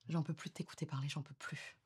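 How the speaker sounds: drained and fed up; weary exasperation. Acted. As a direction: say it quietly, worn out. Fed-up partner begins breakup confrontation.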